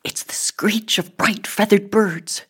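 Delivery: airy stage whisper; hushed, whispery wonder. A narrator's reading. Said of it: "Ebony whispered".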